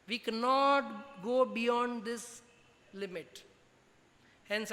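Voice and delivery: slow, haughty mock-royal English; mock royal snobbery. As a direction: lay it on like a snooty royal. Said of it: "એટલે મેં કહી દીધું". (ધીમા, ઘમંડી શાહી ઢોંગથી)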